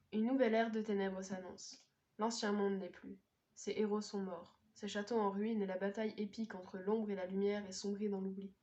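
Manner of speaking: measured read-aloud of a book summary; blurb reading. Acted. Vlogger reading a fantasy blurb to viewers, measured narration. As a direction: read the back cover evenly.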